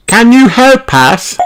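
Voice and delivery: high, loud little piglet voice; Peppa asking. A narrator's reading. Peppa asks Mummy Sheep for help, high piglet voice. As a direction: ask as the small pig. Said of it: "asks Peppa".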